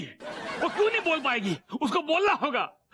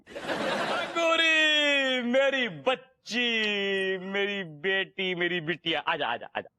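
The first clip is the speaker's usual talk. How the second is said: tender call; 4 semitones lower, slower than usual. Acted. Father calls daughter tenderly.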